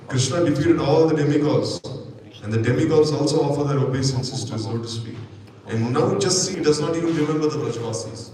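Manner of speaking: a touch of loud indignation; impassioned plea. Acted. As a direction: call out to Uddhava with rising grievance. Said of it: "So then Rohini said".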